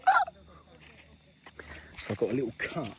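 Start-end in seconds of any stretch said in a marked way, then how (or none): 0.1-0.3 short mock "ah" of shock; quick imitated cry of surprise; startled yelp imitation. Retelling being hit in the face, mock startled yelp. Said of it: "I was all like".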